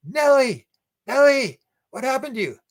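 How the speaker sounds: high alarmed calling of the dog's name; retold panicked owner calling his dog; alarmed cry. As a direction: call out to the dog in shock. Chris finding bleeding dog.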